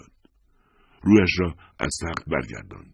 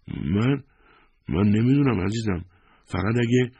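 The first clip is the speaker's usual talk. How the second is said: Lisa's voice; 8 semitones higher, 3 dB louder than usual. Acted. Lisa voiced, shaken reply.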